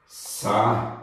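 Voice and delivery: SAÍDA split into sa... í... da, long gaps; syllable by syllable. Shown as a demonstration. Teacher shows class the lone I, Saída in separate syllables. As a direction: break Saída slowly into sa, í, da. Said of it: "O I está na sílaba tônica sozinho".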